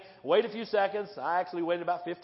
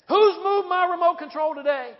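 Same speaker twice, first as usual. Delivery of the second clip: grouchy husband; 8 semitones higher, 7 dB louder than usual. Pretend. Husband grumbling about remote.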